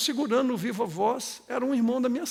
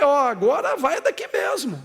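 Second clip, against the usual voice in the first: loud, commanding retold order; retold rebuke; 7 dB louder than usual. Pastor retelling how he cast out a demon, rebuking. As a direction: order it out firmly. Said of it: "repreendi e falei".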